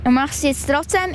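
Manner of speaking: talking with a mouthful of apple; mouth full. Real, not acted. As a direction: chew and speak through the bite. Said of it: "Mit vollem Mund redet man eigentlich nicht".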